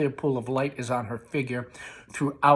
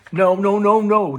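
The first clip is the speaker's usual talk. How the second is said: shouting son; 7 semitones higher, 8 dB louder than usual. A narrator's reading. Tom shouts back.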